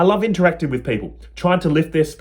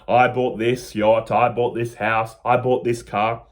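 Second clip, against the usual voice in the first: slow, lower smug bragging; boasting millionaire; 4 semitones lower, slower than usual. Retold or imitated. Teacher mocks millionaires listing purchases, slow lower boast. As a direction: drawl it out like a rich show-off. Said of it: "Two millionaires going".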